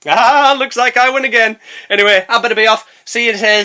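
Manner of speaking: a hint of a cheeky game goblin. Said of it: "I sound like one of the bloody goblins".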